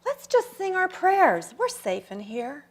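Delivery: mild re-enacted comforting, softening at the end; retold reassurance. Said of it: "children were frightened and gathered around me".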